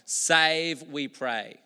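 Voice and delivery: a crowd's rising plea. Retold or imitated. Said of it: "it basically means".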